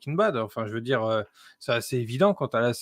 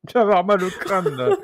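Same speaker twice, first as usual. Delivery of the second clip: usual speaking voice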